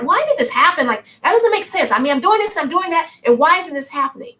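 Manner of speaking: mock whine of a hard-done-by seeker; hammed-up moaning about life not going right; woe is me. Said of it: "it's not like this woe is me".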